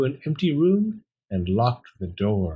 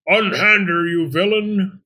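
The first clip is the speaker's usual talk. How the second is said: high, loud storybook outcry; screamed; 7 semitones higher, 4 dB louder than usual. A narrator's reading. Talking bone defending Pearl from the fox, screaming. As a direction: cry out in high-pitched outrage. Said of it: "the bone screamed".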